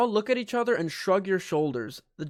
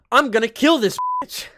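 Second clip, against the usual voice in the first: mock angry threat; 6 semitones higher, 6 dB louder than usual. Player character lunges at maid.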